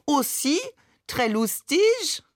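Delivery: put-on high, slow teasing French accent; mock French accent. A narrator's reading. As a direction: flutter around her in a prissy French accent. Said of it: "übertrieben Mamans französischen Akzent". (spöttischer französischer Akzent)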